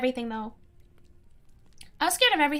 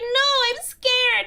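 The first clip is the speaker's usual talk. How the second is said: mock scared child; 8 semitones higher, 5 dB louder, much slower than usual. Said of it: "I was like".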